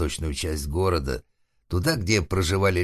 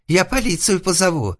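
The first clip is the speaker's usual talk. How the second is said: very high, loud, tearful cry; whimpering threat; 14 semitones higher, 6 dB louder than usual. A narrator's reading. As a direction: threaten in a panicked wail. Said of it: "всхлипнул обитатель покосившейся лачуги". (высокий плаксивый вскрик)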